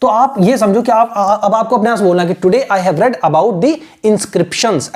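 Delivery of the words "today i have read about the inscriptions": very slow, every word spaced out; teacher showing how to say it; slow model pronunciation. Shown as a demonstration. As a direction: model it slowly for learners. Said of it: "ऐसे इसको pronounce करना".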